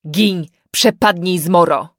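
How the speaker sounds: loud, slow cry to drive off a demon; shouted banishment. Acted. Father shouts at his changed daughter, loud and slow. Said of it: "wykrzyknął ojciec".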